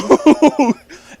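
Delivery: loud high laugh bursting out; real laugh. Real, not acted. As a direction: laugh hard at the absurdity. Laughing at the cop story.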